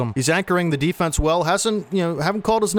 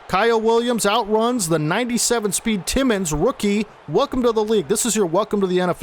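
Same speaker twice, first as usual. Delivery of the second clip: excited; 5 semitones higher than usual. Real, not acted. Touchdown call, excited commentary.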